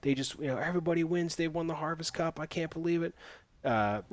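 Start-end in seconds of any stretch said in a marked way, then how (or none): 0.6-3.1 higher, softened mock cheer; understated imitation of an overjoyed crowd; mock celebration. Retelling how everybody celebrates the cup, mock excitement.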